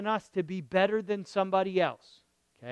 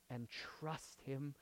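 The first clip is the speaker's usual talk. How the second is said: slow, hushed "And trust him"; low, quiet, unhurried appeal; gentle urging; 5 semitones lower, 18 dB quieter, slower than usual. Real, not acted. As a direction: invite trust very softly. Soft first take, then emphatic repeat.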